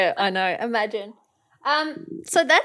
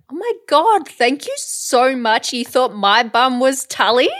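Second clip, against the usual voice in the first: mock gushing; 3 semitones higher than usual. Retelling her reply to a mistaken compliment, mock gushing. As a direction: act out flattered delight, drawing out the thanks.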